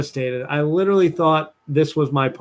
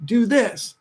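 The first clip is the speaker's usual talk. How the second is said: higher, smug mock bragging; know-it-all boyfriend; 7 semitones higher than usual. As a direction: play the cocky fixer handing out orders. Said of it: "And I'm like".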